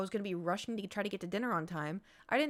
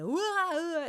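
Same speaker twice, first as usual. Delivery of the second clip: high wordless "wah" of a rowdy crowd; mock distant shouting; 9 semitones higher, 3 dB louder than usual. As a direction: imitate muffled hollering in the background.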